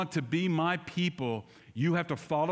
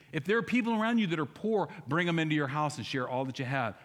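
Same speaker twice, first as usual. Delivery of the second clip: usual speaking voice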